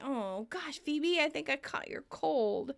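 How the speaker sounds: mock stuffed-up nose; nasally. Monica tells Phoebe she caught her cold, lightly nasally. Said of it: "starts getting nasally".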